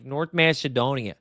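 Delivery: put-on Canadian accent sliding into Chicago; mock Canadian-Chicago accent; botched Canadian accent. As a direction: attempt Wayne Gretzky's Canadian accent, landing nearer Chicago. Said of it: "more of a Chicago accent than a Canadian one".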